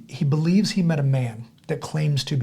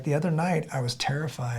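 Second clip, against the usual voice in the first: hushed confession; 8 dB quieter than usual. Retold or imitated. Retold confession of fear, much softer.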